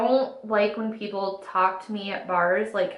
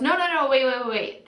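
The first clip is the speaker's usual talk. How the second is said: higher-pitched mock halting protest; urgent interjection; 3 semitones higher, faster than usual. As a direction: imitate a guy cutting in to stop everything. Guy halts the shot order.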